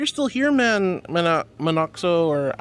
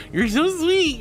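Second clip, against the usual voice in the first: squeaky, much higher and louder sweet-talk; high, sugary thank-you; high cutesy gush; 12 semitones higher, 4 dB louder, slower than usual. Real, not acted.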